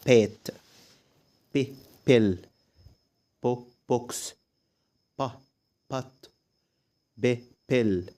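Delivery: short "ب" or "بو", pause, then "بيل" or "بوكس"; word sounding-out. Shown as a demonstration. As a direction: say the first syllable alone, then the whole word, as in "بات". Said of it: "لو نطقنا الكلمات". (تقطيع "بات" و"بيل" للتعليم)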